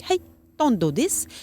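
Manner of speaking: just get the dog's attention; light hey. Shown as a demonstration. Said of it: "like, this voice".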